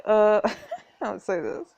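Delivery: laughing through the words; amused real giggle. Real, not acted. Player laughs reading a bold line, laughing.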